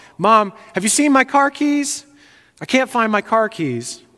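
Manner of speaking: high, hollered yell. Retelling a friend searching for car keys: imitating someone yelling. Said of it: "him yelling down the hallway to his mom".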